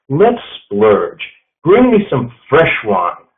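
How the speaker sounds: lightly voiced nouveau riche showing off; brash uncultured rich guy. Steve Martin's character ordering wine, lightly voiced brash show-off. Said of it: "of new money and uncultured".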